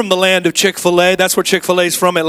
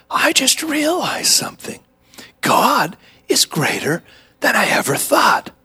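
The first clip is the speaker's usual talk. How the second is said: lightly voiced excited kid; 5 semitones higher than usual. Kid's triumphant punchline.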